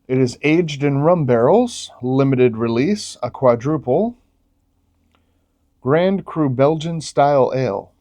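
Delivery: lively announcer-like label reading. Real, not acted. Reviewer reads the beer label to viewers, lively read-out. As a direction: read each phrase out as a selling point.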